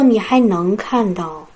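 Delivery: gentle comforting voice. Retold or imitated. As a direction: ease it out gently with love. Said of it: "非常轻柔的声音，带着安慰". (轻柔安慰的声音)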